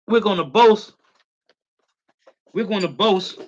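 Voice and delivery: shouted high and loud, leaning on boast; rallying shout. Real, not acted. Preacher rallies the brothers and sisters with a loud shout. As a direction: call it out to the whole room.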